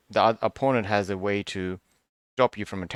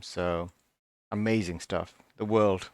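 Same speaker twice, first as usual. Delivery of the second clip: half sarcastic; 3 semitones lower, 3 dB quieter, slower than usual. Real, not acted. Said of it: "I'm being half sarcastic".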